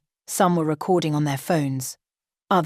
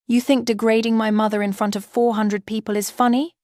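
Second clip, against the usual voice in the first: indignant; 5 semitones higher than usual. Acted. Bride confronts groom.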